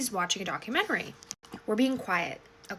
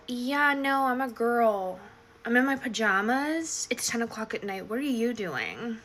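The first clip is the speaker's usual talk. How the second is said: sassy pushback, retold; mock-incredulous and a touch sassy; a bit sassy. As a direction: push back with a little sass. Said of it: "being a little bit sassy".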